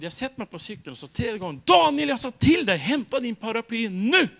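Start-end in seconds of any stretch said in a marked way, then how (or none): 1.6-4.3 commanding order. Retold or imitated. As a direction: give the order as if your patience has run out. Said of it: "Så var det som befallning". (högljudd befallning)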